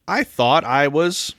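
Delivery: lightly voiced child, slow build-up; relieved little girl. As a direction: draw it out like a small child. Girl reunited with daddy.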